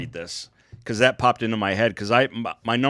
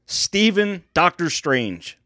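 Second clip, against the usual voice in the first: boxing ring announcer; 3 semitones higher than usual. Acted. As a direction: call the fighter into the ring. Introducing fighter like ring announcer.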